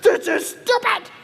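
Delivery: high, slow, sobbing protest; crying outburst. Retold or imitated. Bawling in the kitchen, high slow tearful wail. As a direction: wail it through tears. Crying while being consoled.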